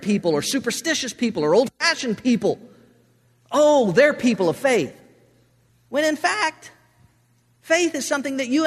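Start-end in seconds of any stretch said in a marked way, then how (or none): 3.5-4.9 slow, higher mock condescension. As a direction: talk down about naive believers, mockingly. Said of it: "As if faith were something".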